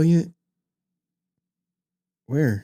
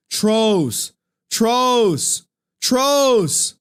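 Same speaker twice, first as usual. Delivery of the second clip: accusing; 6 semitones higher, 3 dB louder, much slower than usual. Real, not acted. Calling out viewers as trolls.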